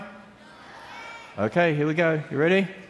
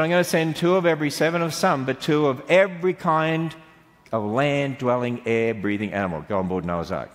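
quick recital. Shown as a demonstration. Testing the children, reciting God's promise fast then slowing. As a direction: recite it briskly, easing off at the end. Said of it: "Now listen carefully".

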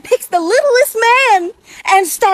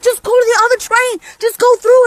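urgent call; 5 semitones higher, 3 dB louder than usual. Retold or imitated. Narrator urges victim to escape.

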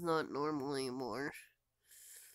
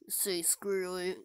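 tired whisper. Real, not acted. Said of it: "too tired".

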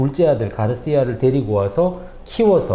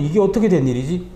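startled; 5 semitones higher than usual. Retold or imitated. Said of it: "깜짝 놀라면서".

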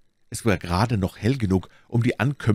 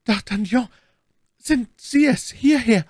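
very high cry, growing louder; calling out; 5 dB louder than usual. A narrator's reading. Bonacieux calls D'Artagnan to her room, calling out. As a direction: cry out to be found, high and loud. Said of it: "rief sie".

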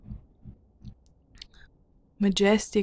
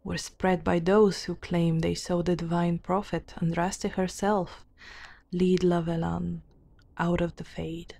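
measured, deliberate storybook reading; formal fantasy narration; lore narration; 3 semitones lower, 3 dB quieter than usual. A narrator's reading. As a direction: read out old lore in even phrases. Reads game lore aloud.

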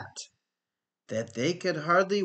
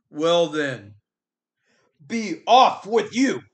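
troll voice; 5 semitones higher, 7 dB louder than usual. Acted. Troll lets goat pass.

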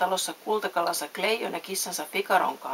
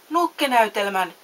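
a louder, delighted exclamation; exclaiming; 3 semitones higher, 7 dB louder than usual. A narrator's reading. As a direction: burst out with excitement. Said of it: "Pinokkio huudahti". (innostunut huudahdus)

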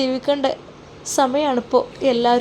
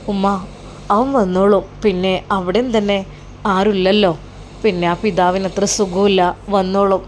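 lightly voiced son; 4 semitones lower than usual. Son reassures his mother.

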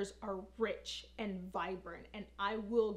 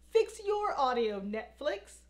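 exasperated demand; 3 semitones higher, 4 dB louder than usual. Pretend. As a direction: call it out to Netflix in frustration.

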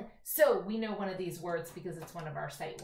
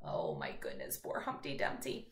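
mock sympathy; 6 dB quieter than usual. Teacher pitying Humpty.

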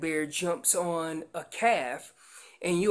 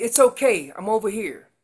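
firm, raised reassurance; Mom calling back louder; 5 dB louder than usual. Acted. Mom telling baby it's okay, slightly louder call. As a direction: answer a little louder to settle the baby. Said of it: "a little louder".

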